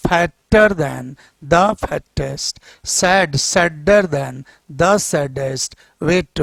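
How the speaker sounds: each comparative drawn out very slowly; slow drilled forms. Shown as a demonstration. Teacher drills the class on comparative forms, very slow. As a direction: drill bigger, hotter, thinner slowly, one by one. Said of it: "थोड़ा सा विचार कीजिए".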